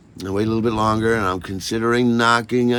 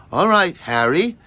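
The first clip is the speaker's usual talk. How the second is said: Maggie's voice, imitated; 9 semitones higher, 6 dB louder than usual. Maggie at her door.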